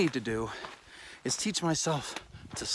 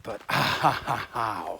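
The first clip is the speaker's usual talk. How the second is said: laughing; 5 semitones lower, slower than usual. Real, not acted. Laughs at own mistake.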